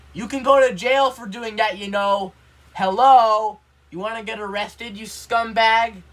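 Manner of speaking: loud, high, furious rebuke with a slow drawn-out insult; outraged scolding. Real, not acted. Nephew scolding absent uncle for threatening the cat, loud furious rebuke. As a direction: tell him off like he's right there.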